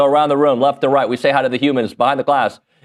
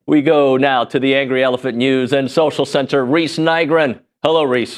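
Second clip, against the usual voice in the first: 1950s announcer. Real, not acted. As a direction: announce it like a vintage newsreel man. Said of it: "Why am I talking like a weird, like, nineteen fifties announcer man?".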